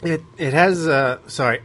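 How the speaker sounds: sputtering, choking on water. Real, not acted. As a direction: talk while choking on water. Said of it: "I'm choking on my water here".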